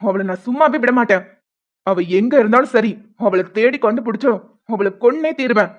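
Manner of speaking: loud, furious vow of revenge; angry vow. Acted. Man vowing revenge on the woman who betrayed him, furious. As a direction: swear you'll hunt her down.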